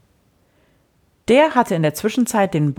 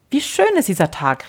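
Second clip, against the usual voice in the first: a mild call, slightly raised; 4 semitones higher than usual. Acted. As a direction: call it out gently, a little higher. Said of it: "rief der Freund".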